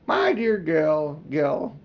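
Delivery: put-on very slow, coaxing old man; a hint of a smarmy uncle; drawn-out wheedle. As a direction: stretch out the endearment. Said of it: "said Uncle Andrew".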